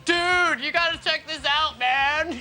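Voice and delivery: lightly imitated American frat boy accent; American college boy. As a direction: mimic an American college dude, mildly mocking. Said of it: "American college boys, like".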